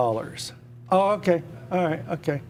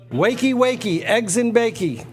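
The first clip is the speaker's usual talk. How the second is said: singsong wake-up call; 6 semitones higher than usual. Pretend. Host greeting viewers with his old singsong catchphrase. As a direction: call it out high like waking a child. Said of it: "You don't say it anymore".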